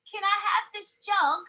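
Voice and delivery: imitated son asking in British; British accent. Son asking mom for a jug, mock British accent. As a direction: put on a child's polite British request. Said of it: "he talks British".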